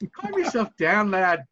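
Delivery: put-on Scottish accent. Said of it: "get a Scottish accent going".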